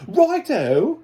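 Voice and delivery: high, loud, hammed-up British accent; terrible British accent. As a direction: shout in a badly faked British accent. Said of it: "the worst British accent".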